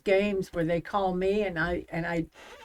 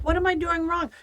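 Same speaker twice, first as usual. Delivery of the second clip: playing dumb; 11 semitones higher than usual. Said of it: "I would just play stupid".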